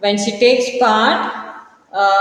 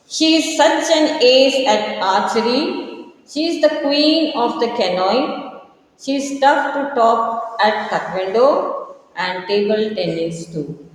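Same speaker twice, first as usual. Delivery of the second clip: measured poem reading, lifted at the start, falling to the close; poem recitation; 3 semitones higher than usual. Acted. Teacher reads Olympic Granny stanza to pupils, poem recitation. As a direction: read verse aloud line by line to a class.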